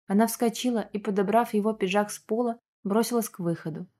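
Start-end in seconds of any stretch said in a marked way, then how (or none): none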